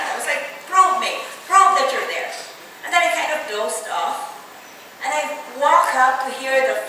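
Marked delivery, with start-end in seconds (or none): 0.7-2.3 raised, defiant dare; retold combative challenge. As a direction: dare God to prove it. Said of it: "I was defiant".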